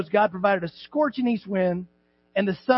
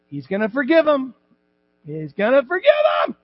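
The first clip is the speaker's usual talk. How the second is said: frustrated; 3 semitones higher, 4 dB louder than usual. Retold or imitated. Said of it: "All frustrated and angry and mad".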